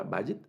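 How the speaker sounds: vayit said VA-yit, first syllable stressed. Shown as a demonstration. Teacher repeating the word, stress on VA. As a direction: put the weight on VA in vayit. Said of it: "el acento en esta primera".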